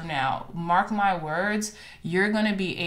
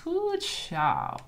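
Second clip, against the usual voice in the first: a high, delighted whoop at the card; high-pitched whoop of joy; excited whoop; 11 semitones higher than usual. Real, not acted. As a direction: let the delight jump up high. Reacting to card.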